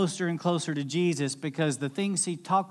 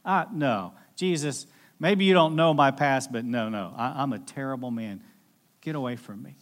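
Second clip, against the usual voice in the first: ashamed realization; 3 semitones lower than usual. Retold or imitated. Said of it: "he realized".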